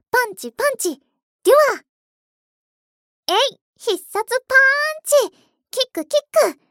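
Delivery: high, loud attack cries; screaming attack name. Pretend. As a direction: shout each move like a superhero fight. Cheering hero attacks in play.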